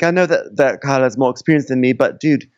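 lightly put-on British accent; a hint of a British accent. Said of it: "so I'm just going British".

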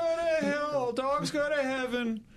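mock poem recital. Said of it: "you know what they say".

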